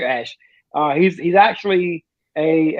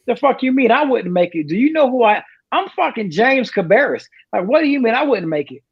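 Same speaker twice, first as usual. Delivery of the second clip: mock-indignant, higher-pitched cocky teen; cocky kid; 4 semitones higher than usual. Teenager challenged by a recruiter, cocky and indignant. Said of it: "I'm this cocky eighteen-year-old kid".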